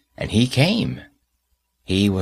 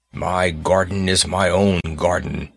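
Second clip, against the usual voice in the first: gruff giant; 3 semitones lower than usual. Acted. Giant speaks after gruff cry.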